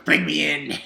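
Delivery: laughing through the words; dog chuckles at the sucker; laughing gloat. Retold or imitated.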